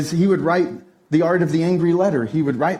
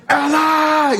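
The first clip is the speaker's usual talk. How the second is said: whisper scream; 11 semitones higher, 5 dB louder than usual. Retold or imitated. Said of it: "that whisper scream going on".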